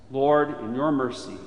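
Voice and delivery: ordinary delivery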